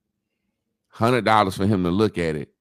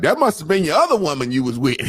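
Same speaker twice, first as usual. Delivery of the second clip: accusing woman; 5 semitones higher, 4 dB louder, faster than usual. Retold or imitated. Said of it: "A woman be like".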